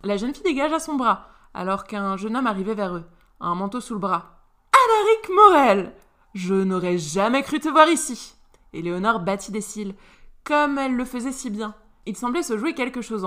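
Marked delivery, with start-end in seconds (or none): 4.7-8.3 much higher, loud name called out. Acted. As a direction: call out his name across the room. Éléonore interpelle Alaric. (appel fort et aigu, surprise feinte)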